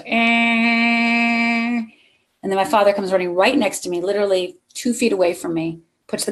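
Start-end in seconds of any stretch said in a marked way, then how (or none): 0.0-1.8 long steady car-horn blare; sustained, unwavering honk noise; imitated car horn. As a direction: drone one held note like a stuck horn. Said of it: "all I heard was".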